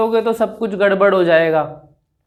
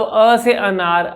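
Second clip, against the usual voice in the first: slow demo; much slower than usual. Shown as a demonstration. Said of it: "अगर कोई अटकने हकलाने वाले को दिक्कत है".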